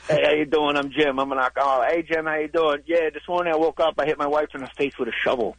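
lightly put-on New Jersey guy; a hint of New Jersey regular-guy accent. Comic plays Jersey guys at an AA meeting, light Jersey accent. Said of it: "doing the wrong regional accent".

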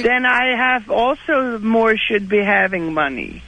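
a pop singer's voice. Pretend.

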